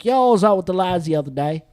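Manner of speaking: badly faked English accent. Host imitating English friends out together, English accent. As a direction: try a laddish English accent. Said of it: "whenever you're in England".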